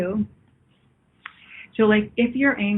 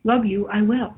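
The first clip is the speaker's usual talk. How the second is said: Yoda; 3 dB louder than usual. Retold or imitated. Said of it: "He speaks".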